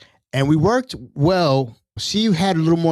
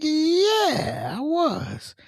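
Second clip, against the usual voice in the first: sheepish reply; much slower than usual. Retold or imitated. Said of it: "I'm like".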